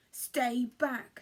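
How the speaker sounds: loud, firm stay back; shouted warning. Acted. Bruce shouting at Cyril to keep away. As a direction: warn him off, loud. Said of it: "shouted Bruce".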